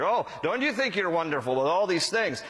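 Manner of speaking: mildly sarcastic mock admiration. Pastor voicing Paul to the self-satisfied, lightly sarcastic. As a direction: lightly needle them with feigned wonder. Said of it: "he's a little sarcastic here".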